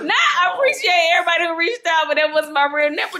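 laughing do-over of the shout-out; laughing retake. Pretend. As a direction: try it again but can't stop laughing. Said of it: "Let's rewind that".

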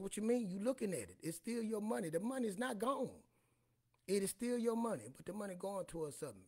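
high, loud insistent explaining; retold exasperated lecture. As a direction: push the point hard and high. Retold argument with daughter.

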